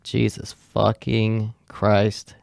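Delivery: slow, word-by-word oath; heavy, spaced-out exasperated swearing; retold dismay. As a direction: draw out each word in disbelief. Retold dismay at coworker's description.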